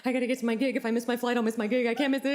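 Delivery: hurried, run-on pleading; panicked rapid talk. Retold or imitated. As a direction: rattle out excuses to an officer without a breath. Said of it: "I just started talking a mile a minute".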